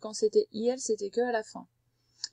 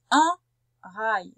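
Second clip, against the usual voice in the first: "un" leaned on, louder and rising; stress on un; 5 dB louder than usual. Shown as a demonstration. Teacher stressing "un" so the pupil hears masculine. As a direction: hit "un" to mark the masculine. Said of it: "C'est donc masculin".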